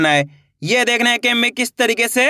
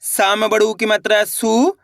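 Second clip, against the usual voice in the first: slow syllable drill. Shown as a demonstration. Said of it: "देखिए किस तरीके से है".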